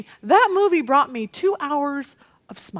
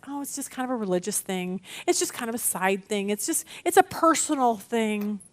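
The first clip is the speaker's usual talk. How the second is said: dismissive excuse; 3 semitones lower, 5 dB quieter than usual. Retold or imitated. Voicing a dismissive excuse about faith.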